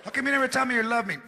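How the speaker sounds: fast whiny demand; nagging wife. Acted. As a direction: press him, rushed and needy.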